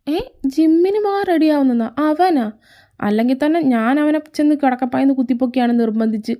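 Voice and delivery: can't believe her ears; surprised disbelief. Acted. Mother shocked son goes gym. (അത്ഭുതത്തോടെ ഉയർന്ന സ്വരത്തിൽ)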